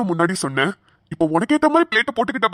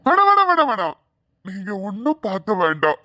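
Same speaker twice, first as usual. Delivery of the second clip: panicked refusal. Acted. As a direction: blurt it out to stop them at once. Panicked refusal of offer to check. (பதறிப்போய் அவசரமாக தடுத்து)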